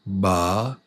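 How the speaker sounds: "Ba-na-na" with a pause after each syllable; three separate beats. Shown as a demonstration. Teacher showing the chin drops three times, separated "Ba-na-na". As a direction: count three beats through "Ba-na-na". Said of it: "Three times".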